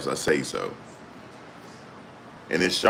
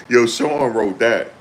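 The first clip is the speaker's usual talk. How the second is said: laughing; 6 semitones higher, 4 dB louder, slower than usual. Real, not acted. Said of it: "laughing reaction".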